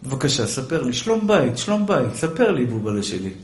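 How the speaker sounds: whisper-soft tempting for gossip; sweet wheedling. Retold or imitated. Wife sweetly pressing her husband for gossip.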